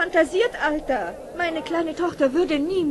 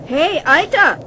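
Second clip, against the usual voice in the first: calling out; 9 dB louder, slower than usual. Acted. Calling out to an old man.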